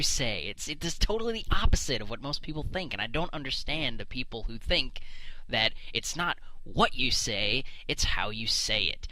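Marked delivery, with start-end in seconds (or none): 5.9-9.1 slow and sing-song, the last words whispered; mock the saying, drop to a whisper at the end. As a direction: parody of a wise old saying. Mocking the adage again.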